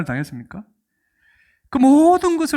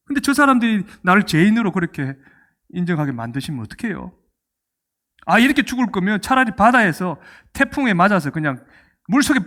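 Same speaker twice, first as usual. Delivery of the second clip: aggrieved protest, louder at the start; complaining to God; 4 dB louder than usual. Retold or imitated. Preacher voicing Paul's grievance to God, aggrieved. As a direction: plead your innocence to God, stung. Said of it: "뭐 이런 생각 들지 않을까요".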